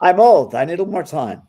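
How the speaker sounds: loud, hammed-up old person begging for time; mock old person. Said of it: "And sometimes I'll come".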